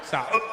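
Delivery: Saudi broken by a hiccup after "Sa". Retold or imitated. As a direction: imitate a hiccup in the middle of Saudi. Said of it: "I thought he hiccuped".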